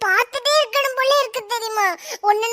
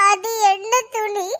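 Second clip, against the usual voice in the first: sniffling; slower than usual. Acted. Sulky tearful girl asks.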